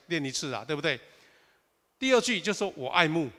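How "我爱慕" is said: 爱慕 brought out louder; stress on key words. Shown as a demonstration. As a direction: lean firmly on 爱慕 as the key point. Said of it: "讲那个重点".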